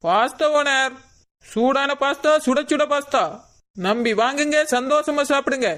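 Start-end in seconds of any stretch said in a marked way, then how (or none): 1.4-5.7 singsong street hawker. Acted. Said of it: "எதுக்கு இப்ப விளம்பரம் பண்ணிட்டு இருக்கா".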